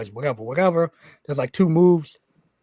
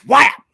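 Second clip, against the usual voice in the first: sharp loud high "whap" like a fist landing; punch sound effect; 10 semitones higher, 11 dB louder than usual. Retold or imitated. Retelling the punch to the guys, loud punch noise. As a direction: smack the word out like a punch.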